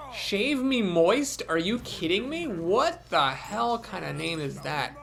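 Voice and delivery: drawn-out, disbelieving reading of the name; incredulous. Real, not acted. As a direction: scoff at an absurd player name. Mocking a silly opponent name.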